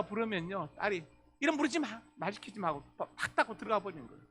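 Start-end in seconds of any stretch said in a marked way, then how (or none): 1.4-2.7 put-on high-pitched teenage rebuff; irritated teenage daughter. Daughter to father calling her name, irritated and high.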